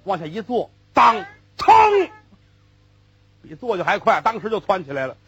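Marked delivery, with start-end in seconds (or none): 0.9-1.7 mock startled yelp. Sudden jolt sound in the story.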